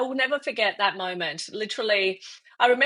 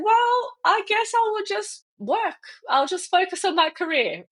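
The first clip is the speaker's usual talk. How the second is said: resigned self-talk; 12 semitones higher than usual. Retold or imitated. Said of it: "I said".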